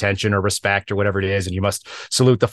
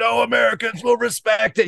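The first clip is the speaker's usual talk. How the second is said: mock very high, rasping, rough, drawn-out yell; 14 semitones higher than usual. Retelling a man in role being dragged back, imitating him yelling. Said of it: "like yelling".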